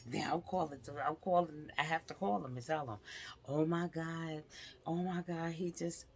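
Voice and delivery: flustered rush. Real, not acted. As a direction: caught up in the memory, blurting. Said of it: "I'm sorry, I'm jumping".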